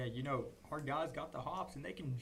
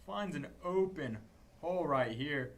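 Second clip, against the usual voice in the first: excited; 2 semitones higher, 6 dB louder than usual. Real, not acted. Big run called live.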